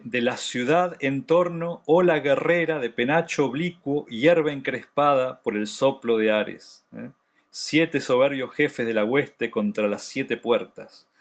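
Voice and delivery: measured, declamatory chorus reading; declaimed verse reading. Acted. Teacher reads the chorus on the warriors to students, declaimed. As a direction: read it out like solemn ancient verse.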